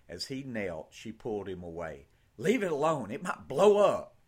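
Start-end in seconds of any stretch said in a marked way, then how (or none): 2.4-4.2 firm warning. Acted. Sister warns Ben.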